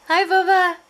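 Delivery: high, loud sing-song dog talk. Real, not acted. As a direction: coo at the dog. Greeting dog in baby talk.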